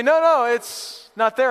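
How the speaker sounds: high, loud, drawn-out objection; mock yelled protest. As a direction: call back slowly in protest. Imitated kitchen back-and-forth.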